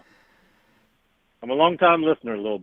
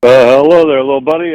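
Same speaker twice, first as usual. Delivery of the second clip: a put-on friendly older caller; a lightly voiced folksy caller; 9 dB louder, faster than usual. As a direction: lay on the down-home buddy act. Caller voice, prank persona.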